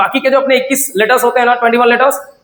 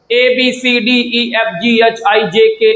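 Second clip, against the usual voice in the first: drawn-out classroom chant; slow alphabet recital; much slower than usual. Shown as a demonstration. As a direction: slowly chant the letters one by one. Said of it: "ये पढ़े हो क्या".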